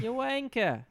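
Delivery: a squeaky, cartoon British jab; a hammed-up Brit spitting out an insult; mock British insult. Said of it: "angry British slang".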